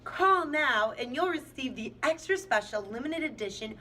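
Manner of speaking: hyped TV salesman, high and loud; infomercial voice. Acted. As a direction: shout it like a late-night TV pitchman. Mock infomercial sales pitch.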